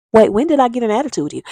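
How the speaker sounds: put-on baffled girlfriend pushing back; bewildered disbelief. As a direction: caught off guard and incredulous. Girlfriend confused by gaslighting.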